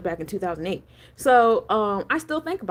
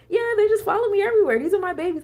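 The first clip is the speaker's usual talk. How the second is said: imitating friend; 10 semitones higher, faster than usual. Friend voiced showing off dragons.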